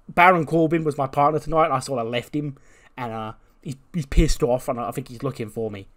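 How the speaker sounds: mock Waller voice. Waller explaining, voiced in retold scene.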